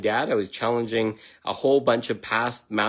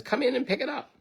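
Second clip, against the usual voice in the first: owner's words. Retold or imitated. Owner invites him for the check.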